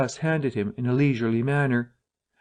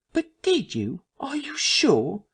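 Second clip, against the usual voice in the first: doubtful whisper; 12 semitones higher, slower than usual. Acted. Bunting doubts Cuss.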